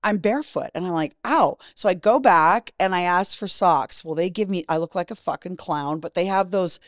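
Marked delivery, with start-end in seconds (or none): 1.2-1.6 short pitched-up cry of pain; mock pained yelp. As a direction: imitate a little ouch, pitched up. Acts out walking barefoot.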